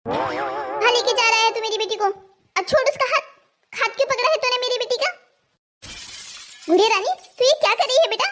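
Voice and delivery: an outraged nani telling him to let go; scolding grandmother. Acted. Grandmother scolds son-in-law.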